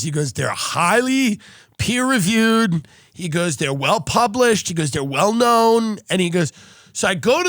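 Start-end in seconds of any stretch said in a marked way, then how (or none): 0.3-2.9 slow, weighty imitation of a doctor; mock-impressive, drawn-out delivery; imitated doctor's endorsement. Retold doctor's sales pitch. 3.6-4.7 slow, weighty imitation of a doctor; mock-impressive, drawn-out delivery; imitated doctor's endorsement. Retold doctor's sales pitch. 4.9-6.0 slow, weighty imitation of a doctor; mock-impressive, drawn-out delivery; imitated doctor's endorsement. Retold doctor's sales pitch.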